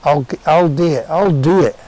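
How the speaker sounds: retold insistence. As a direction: press her to let him do it. Insisting he'll do the task.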